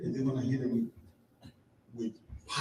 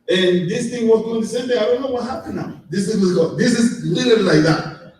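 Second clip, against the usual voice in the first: mock upset protest; 6 semitones higher, 6 dB louder than usual. Upset retelling argument with coach.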